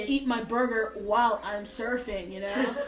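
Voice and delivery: laid-back Californian surfer with an Australian tinge; Californian-Australian accent. Acted. Playing the cool California cousin, Californian-Australian accent. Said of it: "I sound like a Californian Australian".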